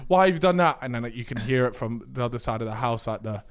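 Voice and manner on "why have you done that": high, loud wail easing into complaint; mock screaming. Sister framing her brother to dad, high mock-hurt screaming. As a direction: fake being hurt, shriek then accuse.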